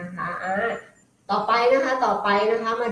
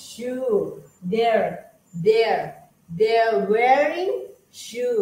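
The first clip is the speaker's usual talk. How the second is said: slow, drawn-out classroom drill; slow drill reading; 2 semitones higher, much slower than usual. Shown as a demonstration. Teacher drilling students in slow English sentences. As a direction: spell each word out slowly.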